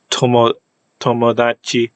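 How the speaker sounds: tomodachi said in Japanese, to-mo-da-chi; Japanese word tomodachi. Shown as a demonstration. Linguist giving a Japanese example, says tomodachi. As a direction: read tomodachi with Japanese syllables. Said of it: "this t actually".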